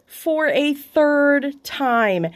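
drawn-out, deflated self-mockery; mock echo. Real, not acted. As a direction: let it hang in disbelief. Echoes her own punchline.

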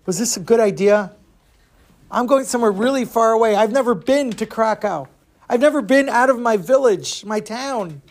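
mildly acted boy's rising worry; touch of homesick panic; regretful panic. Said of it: "he starts to regret his actions".

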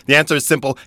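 loud showman announcement; carnival barker voice. Pretend. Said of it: "carnival barker voice".

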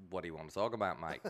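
lightly put-on Australian accent. Retelling his reply to a musician, light Australian accent. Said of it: "Australian accent really good".

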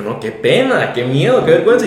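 building from flustered to a loud, high panicky cry; mock panicked protest. Max recalling his fear of dropping in on the client, building into a loud, high panicky cry.

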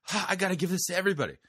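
high, fast, squeaky mimicry; shrill sped-up impression of an excited woman; mocking high voice. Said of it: "Katie Souza is like".

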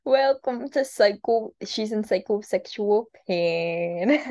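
slow, drawn-out podcast intro; announcer voice. Pretend. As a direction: announce it slowly like a show host.

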